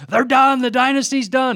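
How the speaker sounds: high, loud overreacting fan voice; hammed-up cry of doom; mock alarm. Voices overreacting fans declaring doom.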